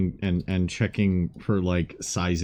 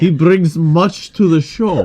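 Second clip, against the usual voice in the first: much louder, slow words broken by laughter; laughing; 7 semitones higher, 11 dB louder, slower than usual. Acted. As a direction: push the line out while cracking up. Player laughs through his line.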